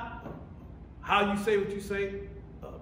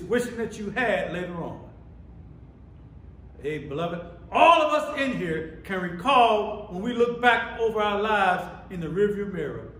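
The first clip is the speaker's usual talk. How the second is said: loud, raised sermon voice; emphatic preacher, pitched up and punching key words; full-force preaching; 3 semitones higher, 6 dB louder than usual. Real, not acted. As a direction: drive the point home to the congregation.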